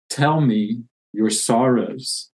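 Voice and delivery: slow and tender, like a great lion; a hint of a deep, kind lion; gentle, slow lion voice. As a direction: speak it slowly, kindly, not loud. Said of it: "a voice not loud, but very large and deep".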